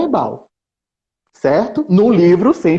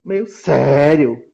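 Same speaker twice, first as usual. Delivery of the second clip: mock serious; 4 semitones lower, much slower than usual. Shown as a demonstration. Teacher demoing the book's tone, slow and serious. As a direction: drag out "meio sério" slowly, solemn and grave. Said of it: "minha voz mudou quando eu falei chato e sério".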